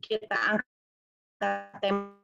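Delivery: choppy cutting-out audio; breaking up space radio. Real, not acted. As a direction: voice dropping in and out on a bad line. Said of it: "suaranya putus-putus".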